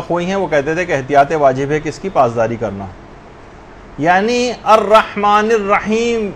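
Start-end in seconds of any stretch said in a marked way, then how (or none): 4.6-6.3 الرحمن الرحیم slow, ending on a closed m; stop on final sukun. Shown as a demonstration. Teacher giving an example of pausing, careful recitation. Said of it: "اگر آپ یوں پڑھ رہی ہیں".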